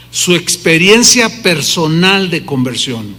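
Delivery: slow, deliberate stress on "Su experiencia personal de conversión"; emphatic restatement. Real, not acted. Preacher repeating his key phrase to the congregation, "experiencia personal de conversión" slow and emphatic. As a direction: underline each word of "experiencia personal de conversión", slowly. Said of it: "Quiero subrayar y enfatizar".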